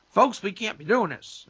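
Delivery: lightly imitating a politician going down-home; a hint of Obama's folksy address. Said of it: "he lowers it".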